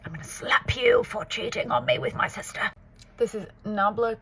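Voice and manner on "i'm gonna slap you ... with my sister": hammed-up soap opera outrage, pitched high; melodramatic soap. Soap heroine confronting a cheating partner, melodramatic. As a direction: deliver it as a mock daytime-drama confrontation.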